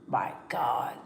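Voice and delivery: hushed, breathless "My God"; stunned whisper, almost no voice; shocked whisper. Retold or imitated. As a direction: whisper it in disbelief. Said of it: "I was like".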